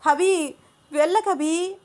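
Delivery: high, slow, wailing plea; crying loudly. Acted. Shweta crying as Abhi leaves, high, slow wail. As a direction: wail at him not to go. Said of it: "గట్టిగా ఏడుస్తూ మాట్లాడుతోంది".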